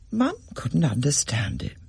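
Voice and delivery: plain reading voice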